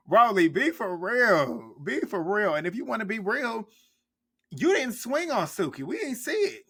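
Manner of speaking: high, loud, worked-up callout; riled-up rant with pitch up high; heated callout. Real, not acted. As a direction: tell Rolly off, voice climbing. Ranting at Rolly on screen.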